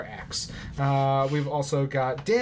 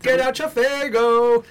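high, loud, slow Juggalo call; Juggalo hype shout; 9 semitones higher, 7 dB louder than usual. Pretend. Calling out to Juggalos, a loud mock hype shout.

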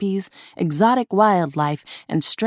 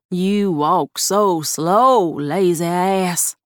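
slow sneering insult; much slower than usual. A narrator's reading. Bob insults her.

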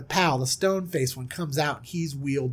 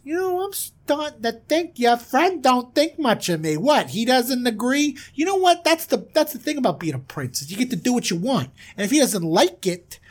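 higher, taunting threat; cocky prince; 5 semitones higher than usual. Retold or imitated. Prince threatens the glaring friend, higher cocky voice. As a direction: lean into the arrogance. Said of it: "He goes".

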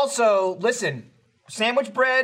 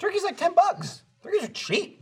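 higher, insistent repeat; 12 semitones higher than usual. Real, not acted. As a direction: push the point, pitched up high. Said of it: "repeats it with emphasis".

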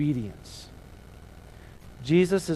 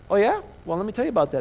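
cocky Jesus; 4 semitones higher, 3 dB louder, much faster than usual. Retold or imitated. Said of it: "Jesus like".

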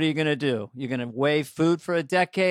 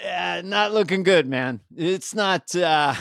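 pretend candid doctor; 2 semitones higher than usual. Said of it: "what is the doctor supposed to say".

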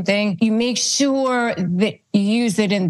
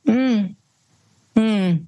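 short flat Mm sounds, a knowing look; unimpressed hum; 3 semitones higher than usual. Shown as a demonstration. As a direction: hum Mm like you're not buying it. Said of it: "just look at them like this".

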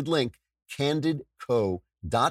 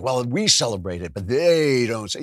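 mock complaint; 6 dB louder than usual. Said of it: "hear people say".

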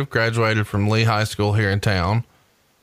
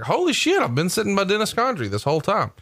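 retold shock; 9 semitones higher than usual. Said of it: "I'm like".

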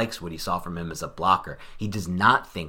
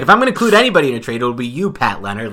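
much higher, much louder and very fast GM voice; hammed-up Gettleman impression; 4 semitones higher, 11 dB louder, faster than usual. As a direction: blast out an over-the-top impression of the GM talking to a reporter. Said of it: "It's so bad".

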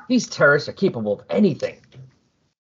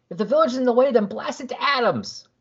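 ruthless chief; 11 semitones higher than usual. Retold or imitated. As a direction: order the strike coldly, drawing it out. Villain orders village destroyed.

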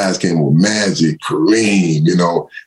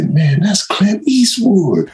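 very slow, much higher amazed exclamation; starstruck; 13 semitones higher, much slower than usual. Retold or imitated. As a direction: drag it out in disbelief at spotting a star. Starstruck at seeing celebrity.

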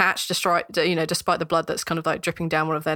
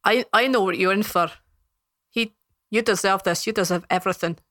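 lightly voiced scornful dwarf; contemptuous guard. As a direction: accuse the prisoner as a hard-nosed guard.

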